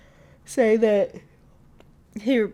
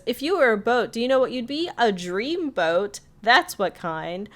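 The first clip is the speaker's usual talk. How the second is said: higher, then slowed punchline; cheesy pickup line; 6 semitones higher, 3 dB louder than usual. Retold or imitated. Mabel delivering a pickup line to Marius, slowing the punchline. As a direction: drag out the dream boat.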